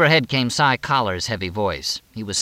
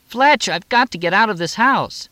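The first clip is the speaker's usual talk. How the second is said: very high, loud, urgent plea; desperate; 12 semitones higher, 5 dB louder than usual. A narrator's reading. Moxie, turning in circles, begs Fletch, desperate and high. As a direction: plead urgently, pitched way up.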